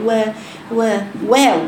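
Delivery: تقليد خفيف لقارئة مرهقة; قلّد قراءة متعبة لـ«وا» ناقصة; قارئة تعبانة. Retold or imitated. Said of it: "وهي تعبانة جدًا تقول". («وا» مرتخية كأنها تعبانة)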